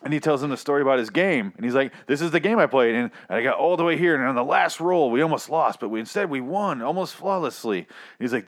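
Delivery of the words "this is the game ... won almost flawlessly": mock excited storytelling. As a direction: imitate a gamer bragging breathlessly. Mimics host's bragging game story.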